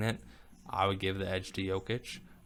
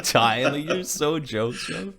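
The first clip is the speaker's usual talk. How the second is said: mock Greek accent; 7 semitones higher, 5 dB louder, much slower than usual. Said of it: "in his Greek accent".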